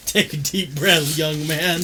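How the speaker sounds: lightly voiced father, drawn-out words; slow it down like a dad instructing; mock daddy. Co-host teasing friend as his daddy, lightly acted. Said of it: "when Daddy said".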